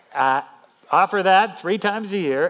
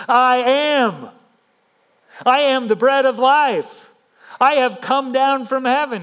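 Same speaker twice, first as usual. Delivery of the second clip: higher and louder, a bold proclamation; 6 semitones higher, 5 dB louder than usual. Shown as a demonstration. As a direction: declare it boldly, no doubt in it. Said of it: "This is a bold statement".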